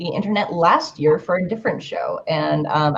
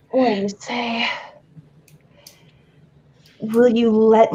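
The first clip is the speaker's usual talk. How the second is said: sexy voice. Pretend. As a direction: read it like a seductive love letter. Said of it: "Should I read this in a sexy voice? I will".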